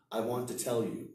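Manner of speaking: "to" reduced to a weak sound; connected speech. Shown as a demonstration. Teacher showing natural linking, weak forms. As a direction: run "want to" together smoothly. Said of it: "lots of little weak stuff".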